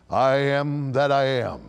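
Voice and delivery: slow, measured, level intonation; God's solemn declaration. Acted. God naming himself to Moses, solemn slow declaration. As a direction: declare it with slow, sustained weight.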